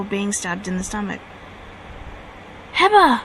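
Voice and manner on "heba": high, loud anguished scream of a name. Acted. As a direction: scream his brother's name as he falls. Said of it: "Yugi screamed".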